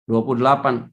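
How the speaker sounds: normal talking voice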